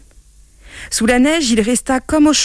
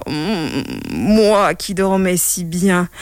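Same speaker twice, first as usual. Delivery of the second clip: sleepy grumbling king; slower than usual. Acted. King woken from sleep, mildly grumbling. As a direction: groan it out like a drowsy old king. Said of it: "le roi grogna".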